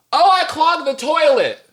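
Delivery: very high singsong mock wife voice; imitating wife's announcement. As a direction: chirp it out, imitating your wife. Mimics wife breezily announcing the clog.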